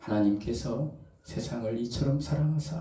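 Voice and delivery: mild, soft, gentle soft-spoken pastor voice. Attempting to imitate a pastor's manner: soft, gentle Lee Dong-won impression. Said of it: "이 성향이 참 부드러우시잖아요. ... 뭐 이렇게 하시잖아요".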